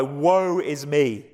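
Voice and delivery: drawn-out cry of woe; slow, solemn lament; great cry. Acted. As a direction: cry it out slowly, stretching each word. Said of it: "this great cry".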